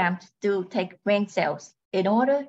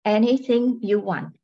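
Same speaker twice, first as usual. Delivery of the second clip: robot voice. Acted. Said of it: "She speaks in a robotic voice".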